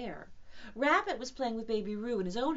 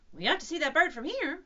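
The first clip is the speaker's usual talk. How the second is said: Rabbit; 9 semitones higher, 10 dB louder than usual. Acted.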